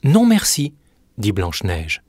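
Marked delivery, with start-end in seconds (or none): 0.0-0.7 put-on young Snow White. Snow White refuses the apple.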